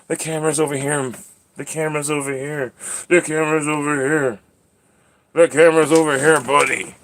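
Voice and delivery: coaxing pet talk. Real, not acted. Owner steering the cat to the camera, high coaxing.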